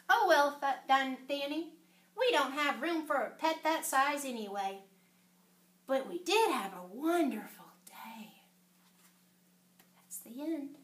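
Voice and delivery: gentle storybook wind-down; story reading to children. A narrator's reading. Reader closing Danny's story for children, gentle storytelling. Reads end of picture book.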